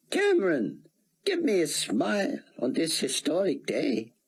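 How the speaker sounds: a hint of an old man's tenderness; fond old statesman. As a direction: coax a smile from the young reporter. Old statesman bids farewell.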